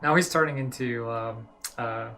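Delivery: light mock German accent, reading the doctor's letter loudly; hint of a German accent. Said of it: "let me do my best German".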